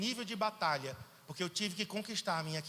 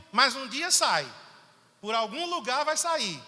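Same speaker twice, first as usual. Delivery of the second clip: loud, higher burst; forceful peak; 6 semitones higher, 9 dB louder than usual. Real, not acted. Preacher warning his church that it comes out, loud. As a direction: let it explode out. Climax after building repetition.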